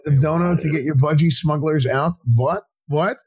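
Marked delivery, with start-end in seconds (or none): 2.4-3.2 accidental Persian-accented question. Real, not acted. Puzzled streamer reading a donation message, slipping into a Persian accent. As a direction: let a Persian accent slip into it. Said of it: "said what with a Persian accent".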